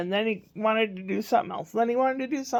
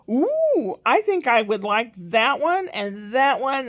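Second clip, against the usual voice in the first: put-on child's voice; 3 semitones higher, 5 dB louder, slower than usual. Spencer voiced choosing ice cream.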